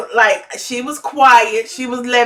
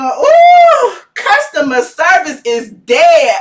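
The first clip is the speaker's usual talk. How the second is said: sassy chat comment; 5 semitones higher, 5 dB louder, slower than usual. Retold or imitated. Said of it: "I'm in the chat going".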